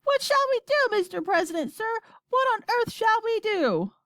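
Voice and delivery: high, frantic radio report; panicked. A narrator's reading. Astronaut begging the president for help, panicked. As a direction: plead desperately, pitch way up throughout.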